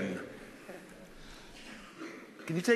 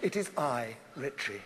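hushed reverence; 8 semitones lower, 6 dB quieter than usual. Acted. Addressing God humbly.

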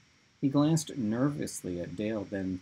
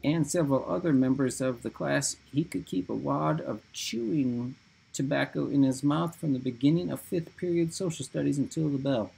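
high shaky voice; 4 semitones higher than usual. Acted. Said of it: "reading in his high, shaky voice".

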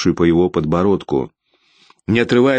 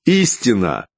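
higher, raised angry shout; hoarse-edged anger pouring out; 7 semitones higher than usual. A narrator's reading. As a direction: shout it down the stairwell. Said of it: "Я уже кричал".

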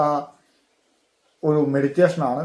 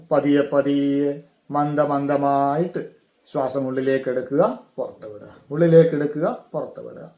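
guided meditation. Shown as a demonstration. Teacher guiding listeners to breathe in and out, guided meditation.

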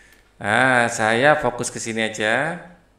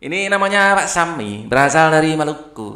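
Madurese choppy speech; 2 semitones higher than usual. Retold or imitated. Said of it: "Kalau orang Madura patah-patah".

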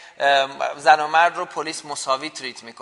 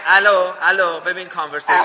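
louder, insistent interruption; calling for attention; 4 dB louder than usual. Real, not acted. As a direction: cut in firmly over the other person. Cuts in on a talking caller. (با صدای بلند وسط حرف پریدن)

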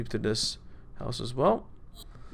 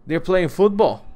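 excited; 6 semitones higher, 7 dB louder than usual. Real, not acted. Spotting enemies, excited.

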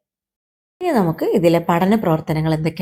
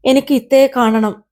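put-on higher, mildly whiny child voice; tearful plea; 5 semitones higher than usual. Crying kite asking the moon for big sister, tearful plea. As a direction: plead as an upset little one. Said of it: "എന്തിനാ മോനെ കരയുന്നത്".

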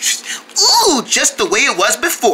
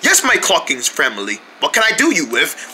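put-on British accent; 4 semitones lower than usual. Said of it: "British accent".

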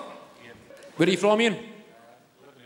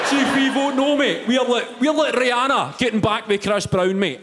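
rough Scottish pitch; 4 semitones higher than usual. Pretend. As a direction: bark it like a pub speech. Voicing Salmond rally pitch.

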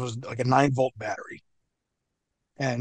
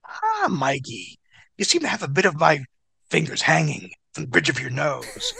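James Mitchell. Retold or imitated. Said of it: "He looks at me and he goes".

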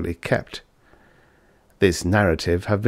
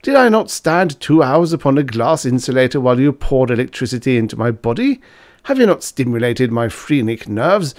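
angry complaint; 4 semitones higher, 4 dB louder than usual. Acted. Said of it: "the student cried angrily".

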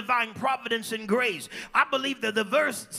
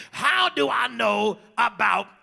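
voiced question; 3 dB louder, slower than usual. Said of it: "with that tone of voice".

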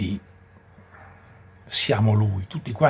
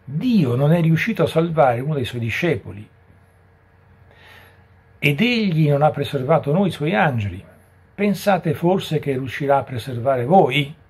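raised, higher declamation; crying out as Satan; 4 semitones higher, 4 dB louder than usual. Retold or imitated. Satan challenging God's power to save, raised cry. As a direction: proclaim it like an accusing Satan. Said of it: "Satana gridò".

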